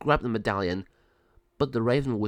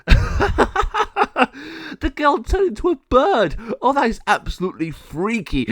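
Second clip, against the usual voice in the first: high, loud cackling gargoyle; bursting out laughing; 14 semitones higher, 8 dB louder, slower than usual. A narrator's reading. El Jago mocking the transformed girl, laughing loudly. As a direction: hoot the words between big hammy laughs. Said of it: "burst out laughing and said".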